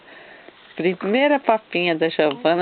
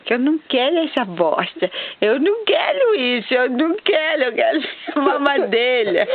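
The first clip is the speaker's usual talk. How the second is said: put-on high whiny baby voice; voicing the baby; 3 semitones higher than usual. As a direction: whine like a fussy baby. Voicing the baby's refusal.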